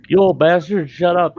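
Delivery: loud, high mock yell at the old man. Retelling a patient shouting at him from the gurney, mock yell. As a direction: bark it like a sore patient.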